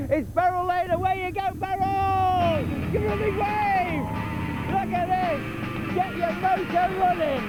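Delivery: excited cheering. Real, not acted. Cheering on a granny biker.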